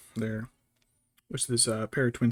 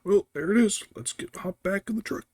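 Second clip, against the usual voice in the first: higher, louder, dismissive imitation; mock father-in-law; 8 semitones higher, 5 dB louder than usual. Imitating the father-in-law leaving the castle, higher and dismissive. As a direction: brush it off like a bored dad. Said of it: "My father-in-law's just like".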